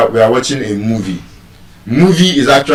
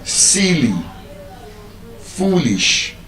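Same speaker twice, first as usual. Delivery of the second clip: SIL-ly, FOOL-ish, each raised then falling; first-syllable stress; 2 semitones higher, 7 dB quieter, much slower than usual. Shown as a demonstration. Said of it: "be stressed on".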